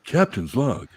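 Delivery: slow, lightly voiced starship captain log entry; a hint of a Star Trek captain dictating; captain's log parody.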